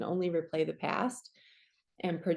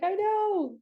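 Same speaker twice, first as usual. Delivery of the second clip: very high, gushing agreement; mock excited reply; 12 semitones higher, 3 dB louder than usual. Answering the thrilled client, high gleeful squeal. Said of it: "I'm like".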